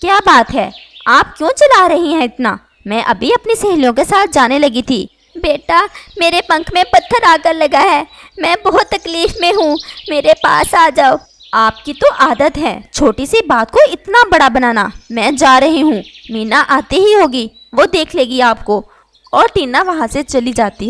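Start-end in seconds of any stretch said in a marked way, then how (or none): 0.0-5.1 impatient daughter interrupted on her way out; annoyed. Acted. Tina snaps at her shouting mother, annoyed and loud. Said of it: "टीना गुस्से में आती है". 5.4-11.2 high, loud anguished plea; pleading in pain. Acted. Wounded mother begs her daughter to stay, in pain. 11.5-18.9 loud dismissive scolding; annoyed. Acted. Tina dismisses her injured mother, loud and irritated. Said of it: "टीना गुस्से में आती है".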